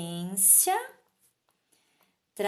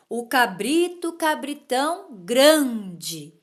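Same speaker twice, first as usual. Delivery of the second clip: goat's proud reply; 6 dB louder, slower than usual. Acted. Teacher voices goat's reply.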